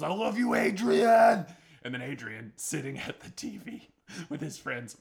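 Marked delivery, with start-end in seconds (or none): 0.0-1.4 high, loud shout across the crowd. Retold or imitated. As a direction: call it out with love. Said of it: "shouting out Adrian".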